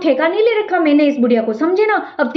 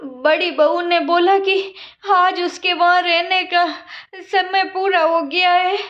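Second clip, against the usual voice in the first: put-on slow, weary old woman's voice; a tired old mother explaining herself; meek old mother-in-law; slower than usual. Old mother-in-law pleading at door.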